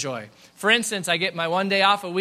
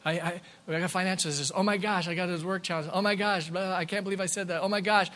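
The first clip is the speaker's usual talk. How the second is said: softer, hurried mock fretting; worried thoughts; 5 dB quieter, faster than usual. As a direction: rattle off worries like an anxious inner monologue. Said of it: "Our mind is, is just thinking about".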